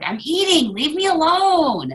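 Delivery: a hint of an annoyed teen; whiny brush-off. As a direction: play the annoyed eater. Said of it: "She's like".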